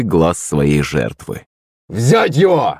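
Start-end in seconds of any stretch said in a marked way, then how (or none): 1.9-2.8 high, strained whimpered order; whimpering command. A narrator's reading. Thug sets his dogs on the enemy, whimpering. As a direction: send the dogs in with a pitched-up whimper. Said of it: "всхлипнул мордоворот".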